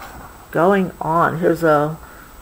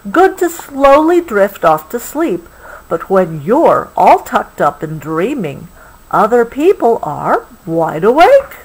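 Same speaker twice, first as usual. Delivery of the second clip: bedtime storybook reading, a touch brighter; story reading; 2 semitones higher than usual. A narrator's reading. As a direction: read it gently to a child at bedtime. Reading picture book aloud.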